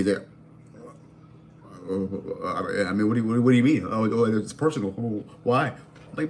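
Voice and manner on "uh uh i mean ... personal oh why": mildly mocked nervous stammer; nervous stuttering. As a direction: imitate a hesitant man tripping over his words. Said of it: "stuttering and fidgeting and shit".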